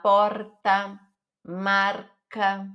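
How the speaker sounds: "porta, marca" with a tapped R as in São Paulo. Shown as a demonstration. Teacher shows R before a consonant, São Paulo tapped R. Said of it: "com aquele sotaque de São Paulo".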